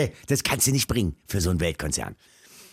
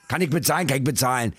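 mock gruff Berliner; 4 semitones higher, faster than usual. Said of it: "Der Berliner ist ja sehr schroff".

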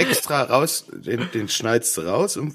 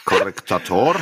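laughing; 4 semitones higher, slower than usual. Real, not acted. Mocking the new word while laughing.

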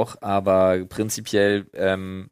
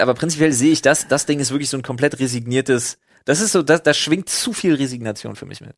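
higher and louder, pushing the point hard; heated, exaggerated rant; deliberately exaggerated; 4 semitones higher, 3 dB louder than usual. Real, not acted. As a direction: overstate it on purpose, rising up. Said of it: "Ich sag jetzt mal extra überspitzt".

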